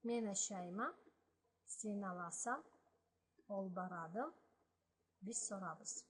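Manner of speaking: each Balkar phrase said clearly, with a pause after each; Balkar example phrases. Shown as a demonstration. Teacher reads the examples to learners, in careful Balkar. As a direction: model each short sentence. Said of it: "some more examples of that".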